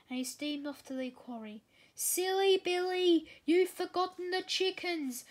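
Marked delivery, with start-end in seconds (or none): 1.9-5.2 higher, louder call to an engine across the farm. A narrator's reading. Farmer calls after Billy, who forgot the chickens, loud and high. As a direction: shout it after a departing train. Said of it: "Farmer McColl called out".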